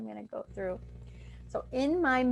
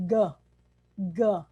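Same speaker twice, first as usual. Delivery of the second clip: demo g sound; 5 dB louder than usual. Shown as a demonstration. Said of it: "If I say".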